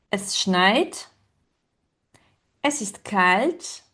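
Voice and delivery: each German phrase said slowly with pauses for repeating; slow repeat-after-me. Shown as a demonstration. Teacher leading a class in repeating, slow and clear. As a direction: model each phrase slowly, leave room to echo. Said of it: "répéter après moi".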